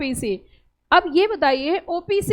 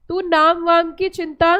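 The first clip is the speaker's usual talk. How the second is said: slow recited mnemonic; slower than usual. Shown as a demonstration. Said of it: "क्या बोला मैंने, फिर से बताइए".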